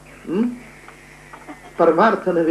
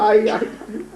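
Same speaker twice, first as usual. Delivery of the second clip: high acted wail for mother; wailing cry; 6 semitones higher, much slower than usual. Narrator voices the eldest child crying for mother, wailing. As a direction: cry out for a lost mother, voice raised. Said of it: "माऊलीने तर हंबरडा फोडला".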